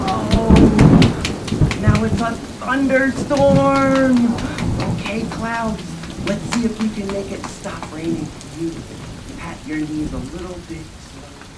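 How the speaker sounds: booming excited storyteller, then easing back down; thunderstorm excitement. Acted. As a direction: burst out like thunder for the kids. Thunderstorm bursts in the game.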